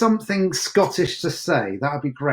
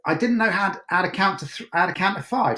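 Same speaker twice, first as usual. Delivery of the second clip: southern English accent without T's or H's; dropped T's and H's; 3 semitones higher than usual. Shown as a demonstration. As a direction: drop every T and H in a local accent. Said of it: "We didn't have any T's or H's".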